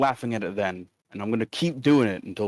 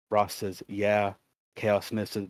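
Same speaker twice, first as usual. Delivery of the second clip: flat, lifeless chat reading; monotone voice; 3 dB quieter, slower than usual. Shown as a demonstration. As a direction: read it dead flat. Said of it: "reading it in a very monotone voice".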